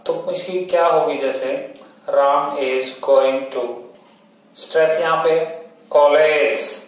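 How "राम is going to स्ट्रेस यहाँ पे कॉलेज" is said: राम is going to very slow and falling, then कॉलेज lifted; falling then rising. Shown as a demonstration. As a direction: show the fall and the rise on the sentence. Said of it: "तो पहले falling हुई, फिर rising हुई".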